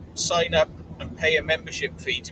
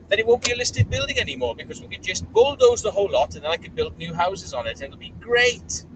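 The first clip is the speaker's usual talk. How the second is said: lightly voiced smug property owner, rising as it goes; scheming with glee, getting higher; a hint of a gloating rich landlord; smug developer; 3 semitones higher than usual. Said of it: "that is their plan".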